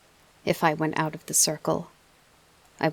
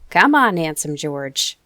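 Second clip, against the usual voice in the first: louder, slower coaxing cheer; more cheerful; 9 dB louder than usual. Acted. Father coaxing his son with a pet name, cheerful. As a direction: coax him with his baby pet name. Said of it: "And then more cheerful".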